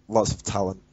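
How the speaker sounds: words broken by a laugh, first try; cracking up mid-phrase; laughing through it. Real, not acted. Joking on the podcast about a league, laughing through it. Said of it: "Yeah, that's better".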